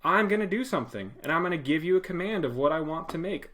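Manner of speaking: loud, high call for attention; yelling at the computer. Pretend. Teacher yelling at the computer to pay attention. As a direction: shout to get the computer listening. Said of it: "I'm yelling".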